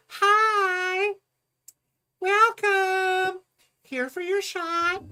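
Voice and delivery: high, loud, sing-song welcome; chirpy greeter voice. Retold or imitated. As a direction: play an overly cheerful receptionist. Retelling the clinic greeter.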